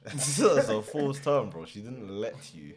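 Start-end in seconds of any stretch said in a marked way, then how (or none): 0.0-1.5 slow, laughing through the words. Real, not acted. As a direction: laugh it out, drawn out. Laughs while correcting friend.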